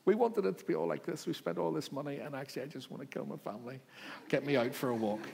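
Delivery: hammed-up frustrated Christmas host; frazzled parent. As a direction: play a stressed parent fed up with family at Christmas.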